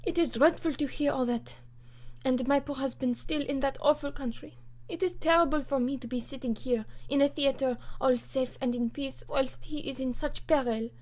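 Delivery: a hint of a grieving wife; distressed French countess. The Comtesse fears for her husband, lightly distressed. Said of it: "she said in broken English".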